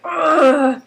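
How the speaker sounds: drawn-out mock groan; imitated sick groan. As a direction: groan like you feel ill, exaggerated. Imitates the sick man groaning again.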